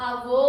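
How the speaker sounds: आवो with the final o drawn out; stretched vowel. Shown as a demonstration. Teacher recalling the stretched avó for students. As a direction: hold the last vowel of आवो long. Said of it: "इस sound को लंबा कर दिया".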